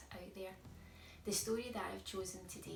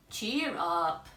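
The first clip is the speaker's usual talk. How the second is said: hearty cheer; 2 semitones lower, 9 dB louder than usual. Acted. George comforts goat.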